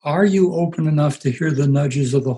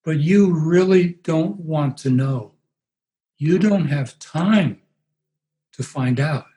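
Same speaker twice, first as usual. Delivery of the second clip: very slow, dragged-out words; a lightly voiced sedated woman, slow; medicated voice; 2 semitones higher, slower than usual. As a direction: Marilyn confronting her pastor, slow and drugged. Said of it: "in her medicated voice".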